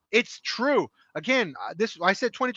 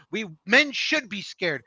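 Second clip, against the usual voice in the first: quoted comment; slower than usual. Retold or imitated. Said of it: "That's a quote I literally saw in a comment".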